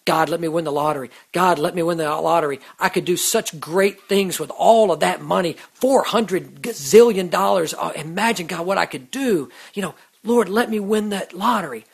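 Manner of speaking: hammed-up wishful prayer; mock lottery prayer. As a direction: play a greedy hopeful begging for a win. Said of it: "it's like praying day in and day out to win the lottery".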